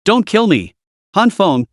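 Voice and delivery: high, frantic plea for his life; terrified scream. Acted. Man screams at Han Feng not to kill him, terrified. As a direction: shriek it as the blade rises. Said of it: "Zhang Chang screamed".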